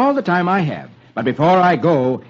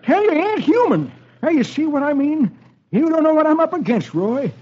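put-on high, panicky old-timer voice; high-pitched scared sidekick; jittery old-timer; 11 semitones higher than usual. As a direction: play a frightened old prospector. Dolfo voiced.

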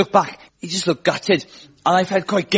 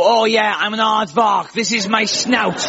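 fooling about; 5 semitones higher than usual. Acted.

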